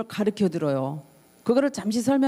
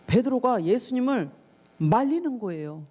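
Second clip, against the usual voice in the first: usual speaking voice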